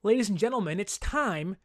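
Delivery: lightly hyped game show host voice; game show announcer. Pretend. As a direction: announce it like a quiz show intro. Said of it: "my game announcer voice".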